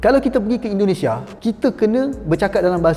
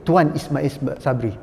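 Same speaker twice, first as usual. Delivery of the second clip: slow mock title; 4 semitones lower, much slower than usual. Shown as a demonstration. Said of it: "Tak ada kan?".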